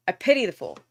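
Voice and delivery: hint of a gruff tough guy; tough-guy catchphrase. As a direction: toss off the famous tough-guy line. Catchphrase quip to viewers.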